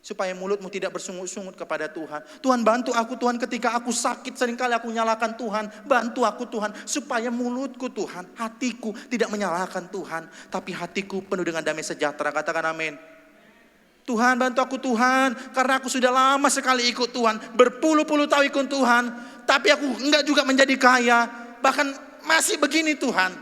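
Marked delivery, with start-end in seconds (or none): 2.4-12.3 high, urgent plea; pleading prayer. Acted. Believer pleads with God not to blame Him, high. 14.1-23.3 high, loud desperate prayer; anguished plea. Acted. Believer cries out to God over poverty, high and loud.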